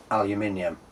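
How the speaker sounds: aluminium said al-yoo-MIN-ee-um, five syllables; aluminium with the British ending -ium. Shown as a demonstration. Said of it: "I'm British".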